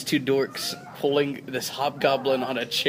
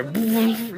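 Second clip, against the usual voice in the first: imitated noise of chairs; 9 semitones higher than usual. Imitating chairs being moved aside.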